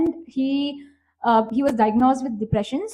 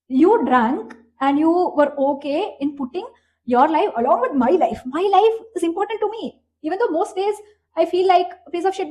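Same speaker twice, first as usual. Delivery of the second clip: raised, emphatic protest; retold indignant outburst; 3 semitones higher, 3 dB louder than usual. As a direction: retell it as a heated, exasperated plea. Retold angry confrontation over risked life.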